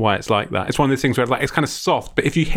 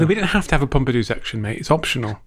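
quick, defensive brush-off; mildly defensive, hurried at first; 3 semitones lower, faster than usual. Real, not acted. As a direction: push back a touch defensively. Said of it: "he's already sounding very defensive".

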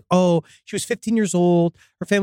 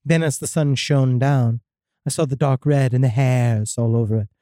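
measured, slightly lower storytelling voice; spooky story reading; 5 semitones lower than usual. A narrator's reading. Host reads a listener's demon encounter, spooky story reading. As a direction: read out an eerie first-person account.

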